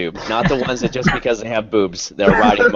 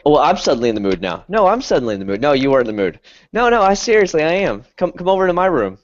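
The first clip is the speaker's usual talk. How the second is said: mock eagerness; 4 semitones higher than usual. Acting out eager jealous girls.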